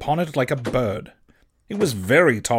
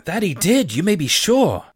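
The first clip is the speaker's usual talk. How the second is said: higher, eager confirmation; eager boy; 4 semitones higher, 4 dB louder than usual. Acted. Boy confirms Silver's memory, eager higher voice. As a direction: pipe up keenly, sure of it.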